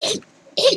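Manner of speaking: very high, loud excited squealing game voice.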